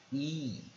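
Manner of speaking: "E" as a drawn-out ee sound. Shown as a demonstration. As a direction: hold "E" to show the vowel. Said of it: "我们是念E".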